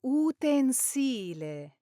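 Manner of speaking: slow "utensile." with careful stress; "utensile." said slowly, stress clear; correct stress. Shown as a demonstration. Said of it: "the correct pronunciation here is".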